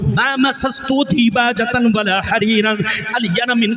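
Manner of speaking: impassioned preaching to a crowd; full-force devotional preaching; fiery sermon. Acted. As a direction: preach it out, rising and falling with fervour. Stage sermon with Arabic recitation.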